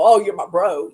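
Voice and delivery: just buddies, light and offhand; casual bro talk. Acted. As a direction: say it like a casual pal. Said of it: "Not just, you know".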